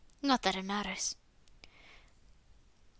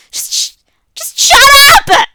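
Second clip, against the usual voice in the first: screamed at the top of the voice, much higher and slower; sudden yell; 14 semitones higher, 19 dB louder than usual. Acted. Natsuki screaming at someone in the clubroom, full yell. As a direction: explode at someone across the room. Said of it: "The sudden yell".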